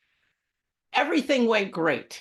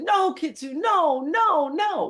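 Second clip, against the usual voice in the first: high, louder cries of no; mock panicked calling, pitched up; retold panic; 8 semitones higher, 4 dB louder, slower than usual. Owner running after dog nearing the highway, retold panic. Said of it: "I'm really panicking now".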